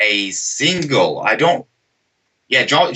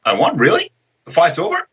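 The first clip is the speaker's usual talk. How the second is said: lightly acted disbelief, rising higher; mild mock bewilderment; 5 semitones higher, faster than usual. Dazed fighter told he has won, mock bewilderment. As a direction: play a puzzled, higher-pitched questioner.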